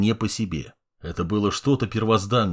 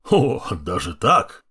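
chuckling; slower than usual. Acted. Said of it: "хохотнул старый орк".

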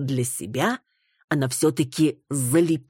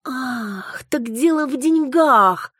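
high, loud, slow, near tears; furious outburst; 10 semitones higher, 4 dB louder, slower than usual. Acted. Wife flares up at her husband, high and tearful. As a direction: explode with injured rage. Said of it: "Не на шутку завелась Маруся".

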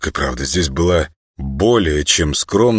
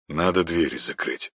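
worried; 6 dB quieter than usual. Acted. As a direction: say it with quiet concern. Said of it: "озабоченно сказал". (озабоченно)

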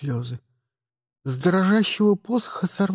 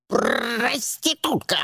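slow, quieter lecturing raven croak; preachy; 6 semitones higher, 4 dB quieter, slower than usual. A narrator's reading. Raven lecturing madam Montrezo, slow preachy croak. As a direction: scold like a schoolmaster bird. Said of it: "назидательно сказал ворон".

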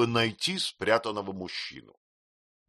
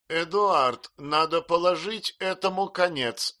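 higher, louder demand; indignant declaration; 9 semitones higher, 5 dB louder than usual. A narrator's reading. Miss Murdstone to her brother, indignant. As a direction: lay down the law.

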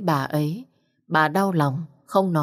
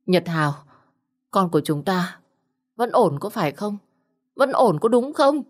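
anxious pleading; 3 semitones higher than usual. Acted. Mỹ An begs her husband to say the baby is fine, rising into panic. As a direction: beg for reassurance, rising to panic. Asks anxiously after miscarriage.

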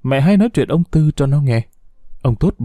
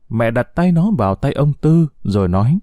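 ordinary delivery

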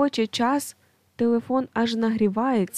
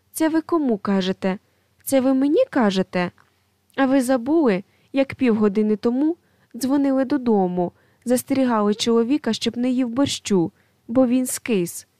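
indignant retort; 3 semitones higher, 3 dB louder than usual. Acted. Quarrel in office over phone.

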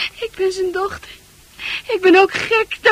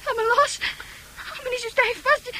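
higher, pleading through tears; frightened plea; 6 semitones higher than usual. Acted. Fran pleading with Arn to let go, scared. Fran struggling in Arn's grip.

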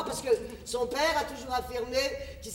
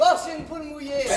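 mocking shout; 3 semitones higher, 5 dB louder than usual. Mère se moque de son fils.

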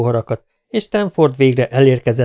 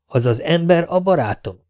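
a startled echo, "barátom" raised as a question; taken aback; 6 semitones higher than usual. A narrator's reading. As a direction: repeat "az az ember a barátom" in disbelief. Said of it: "nézett rá megütközve Festano". (megütközve visszakérdez: „az az ember a barátom?”)

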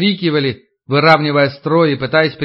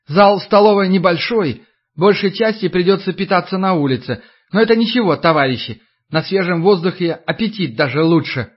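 forced cheerful official; 4 semitones higher than usual. Acted. Official tries a joke.

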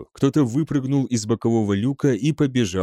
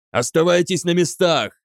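high, urgent command; narrator's restrained yell of command; yelled order; 6 semitones higher, 3 dB louder than usual. A narrator's reading. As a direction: call the order out, pitch raised. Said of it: "заорал Бронце".

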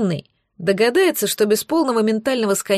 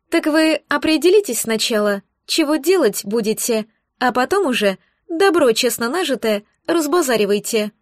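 grumbling; 2 semitones higher than usual. Acted. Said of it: "пробурчала недовольно".

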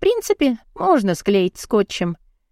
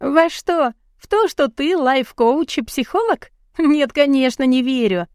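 higher scoffing incredulity; higher mocking disbelief; 5 semitones higher than usual. A narrator's reading. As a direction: scoff at his claims. Heroine mocks him.

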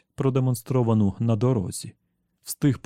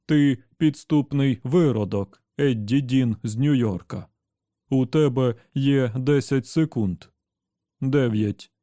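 colourless voice; 2 semitones higher, slower than usual. Acted. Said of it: "безбарвним голосом".

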